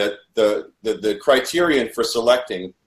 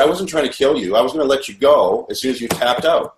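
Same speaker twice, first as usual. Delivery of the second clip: retold protest, pitched up; 4 semitones higher than usual. Captive denies trying to kill Mitch, retold protest. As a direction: plead your innocence, mildly, as a quote. Protests a forced confession at gunpoint.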